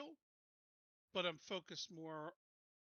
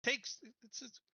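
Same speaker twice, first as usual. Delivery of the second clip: louder, impatient urging; frustrated Hargis; 6 semitones higher, 7 dB louder than usual. Acted. Hargis pressing the scouts for time, louder and irritated. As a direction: snap that they're working on it. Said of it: "so Hargis will say".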